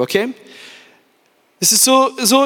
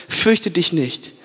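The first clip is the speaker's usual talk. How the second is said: slow, hushed and gentle; slow tender comfort; 5 semitones lower, much slower than usual. Acted. God calms fearful Paul, slow and tender.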